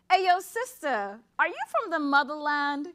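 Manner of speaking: a touch of a man calling out; man on the street. Acted. Poet voicing a man who stops her on the street. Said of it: "a man stops me and says".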